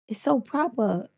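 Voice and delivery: slow, careful British accent. Shown as a demonstration. Copying the host on request, slow British accent. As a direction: try a proper British accent, drawn out. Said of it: "now try do me".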